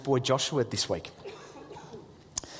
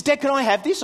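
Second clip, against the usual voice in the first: imitating son; 9 semitones higher, 5 dB louder than usual. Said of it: "He says".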